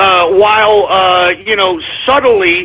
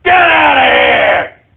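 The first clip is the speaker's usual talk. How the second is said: slow angry shout; 4 semitones higher, slower than usual. Real, not acted. Ranting, telling people to leave.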